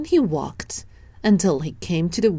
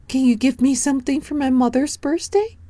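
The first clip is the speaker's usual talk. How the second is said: put-on much higher, fast child voice; silly clown; 8 semitones higher, faster than usual. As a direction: rattle it off like an eager little boy. Danny asks the goose.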